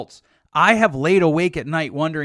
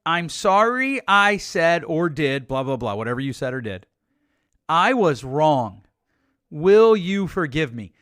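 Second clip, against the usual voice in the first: slow, earnest apology; a model apology, slow and sincere. Shown as a demonstration. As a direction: say it humbly and mean it. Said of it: "here's a good apology".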